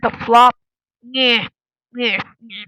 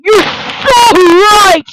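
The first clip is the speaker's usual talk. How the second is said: slow sarcastic agreement; 5 semitones higher, 4 dB louder, much slower than usual. Acted. Sarcastic reply in the argument.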